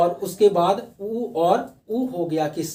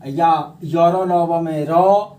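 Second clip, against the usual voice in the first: slow emphatic example; 5 dB louder, much slower than usual. Shown as a demonstration. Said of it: "जहां भी र का उच्चारण हो".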